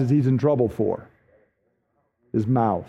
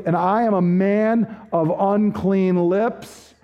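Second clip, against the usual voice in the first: despairing prophet; slower than usual. Acted. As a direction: speak as a man undone before God. Isaiah continues his confession.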